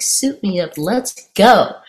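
jazzed quote, punchier on the end; mildly acted eager thrill; excited. Elder woman raring to jump first, retold excitedly. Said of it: "She's so excited".

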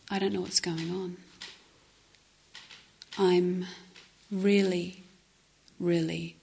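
retold earnest confession, with pauses; sincere confession. Scared meditator reporting to the group, sincere. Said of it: "with a lot of sincerity".

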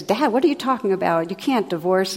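mildly upset, hurried protest; upset son. Retold or imitated. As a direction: retell an alarmed son's quick objection. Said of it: "the man's really upset".

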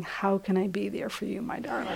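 soft, self-mocking sweetness; mock tenderness. Admitting what they don't think mid-argument, mock-tender. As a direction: coo it quietly, breaking toward a laugh. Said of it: "I am not thinking".

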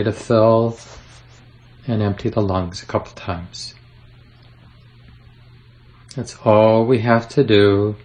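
unhurried meditation guide with long pauses; easy, spacious guiding voice; guided meditation. Acted. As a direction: gently lead them through settling, leaving room to breathe.

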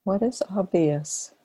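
unhurried meditation guidance with long silences; guided meditation. Acted. Teacher leading students into relaxed awareness, guided meditation. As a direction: guide them gently, phrase by phrase, leaving long pauses.

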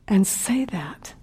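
slow, whispered close; moved speaker hushing down; hushed awe. Real, not acted. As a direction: let the words fall to a whisper. Speaker moved recalling the kindness.

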